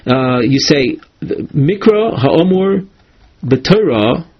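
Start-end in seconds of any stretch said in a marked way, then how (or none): 1.2-4.3 slow, even and unhurried; a calm, respectful reminder to a father. Shown as a demonstration. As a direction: state it calmly, without any wonderment. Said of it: "you say it in a calm tone".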